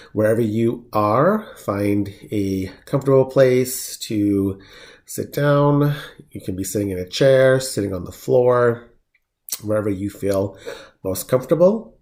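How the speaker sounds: measured meditation guide with long pauses; unhurried, even voice, phrase by phrase; guided meditation. Acted. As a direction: lead them gently through each step, leaving room to breathe.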